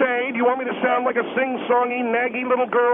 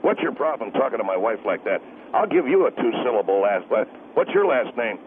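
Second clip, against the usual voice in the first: angry husband; 13 semitones lower than usual. Acted. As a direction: step in as the husband, low and threatening. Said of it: "I'm the husband of the lady".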